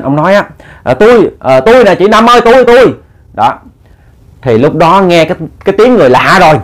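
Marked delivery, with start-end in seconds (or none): 0.8-2.9 high, hurried calling; crying out. A narrator's reading. Startled neighbour telling the widow it is him, crying out. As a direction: pitch it up to identify yourself urgently. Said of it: "mới la lên".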